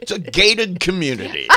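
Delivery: chuckling through the joke; laughing. Real, not acted. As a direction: say it while laughing. Joking, laugh heard.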